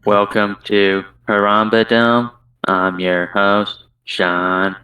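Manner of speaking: flat, slow, lifeless announcer; monotone voice. Pretend. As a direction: drone it with no life at all. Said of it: "in the most monotone voice you can".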